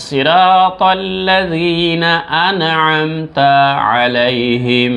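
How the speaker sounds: slow, drawn-out recitation; slow melodic tilawat. Shown as a demonstration. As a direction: chant the verse slowly. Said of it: "আমার সঙ্গে পড়ার চেষ্টা করেন".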